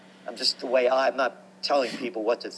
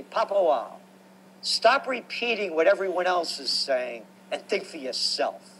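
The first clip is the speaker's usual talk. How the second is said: higher, lightly voiced stern father; imitating father; 4 semitones higher than usual. Father driving, telling his son to think for himself, lightly imitated. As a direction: scold him like a dad who means it. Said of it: "he'd say it just like that".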